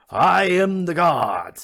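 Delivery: high, drawn-out full-volume scream; huge crazed proclamation. Acted. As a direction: scream it slowly to the whole street. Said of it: "attracted to the scream".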